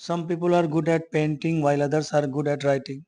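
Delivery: slow, deliberate read-aloud of the English line; slow textbook reading. Acted. Teacher reads the textbook sentence to students, slow and deliberate. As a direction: read each word out slowly for the class.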